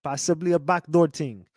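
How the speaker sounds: lightly imitated Jamaican accent, "ting"; mock Jamaican accent. Streamer parroting the clip's backdoor line, mock Jamaican. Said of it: "developed this damn Jamaican accent".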